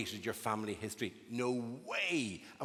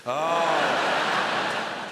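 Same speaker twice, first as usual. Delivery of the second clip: mock sympathy; 7 dB louder, much slower than usual. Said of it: "I'd be there going".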